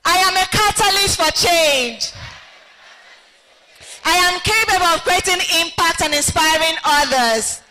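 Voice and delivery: with conviction. Shown as a demonstration. Host leading group affirmations with mild conviction. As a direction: proclaim each line as a belief. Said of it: "We must say these affirmations".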